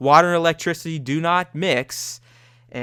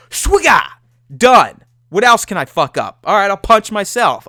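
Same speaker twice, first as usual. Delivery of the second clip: shouted raging yells, much higher and louder; rage outburst; 6 semitones higher, 9 dB louder than usual. Retold or imitated. Gamer to himself mid-rage, yelling furious and high. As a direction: erupt like you're smashing everything in sight. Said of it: "I'm just like".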